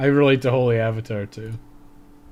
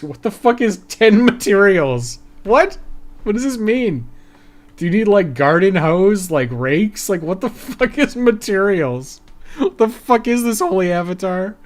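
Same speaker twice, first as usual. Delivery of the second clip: exasperated disbelief; 7 semitones higher, 5 dB louder than usual. Real, not acted. Exasperated at game quest text.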